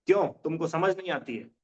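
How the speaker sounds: a touch of irritation, quick; mild angry demo. Shown as a demonstration. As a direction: snap the question lightly, a bit annoyed. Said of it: "जैसे मैं एक थोड़ा गुस्से में बोलूँ". (हल्के गुस्से में)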